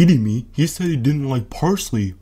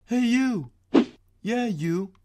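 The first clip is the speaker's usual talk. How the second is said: calling out; 10 semitones higher, 5 dB quieter, slower than usual. Acted. Calling to someone far away.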